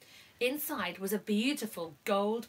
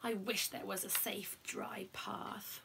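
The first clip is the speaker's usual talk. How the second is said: softer, trailing into a whisper; fading to whisper; 10 dB quieter than usual. Acted. The dog wishing for a path, fading to whisper. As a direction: let the wish fade away. Dog's wish fades.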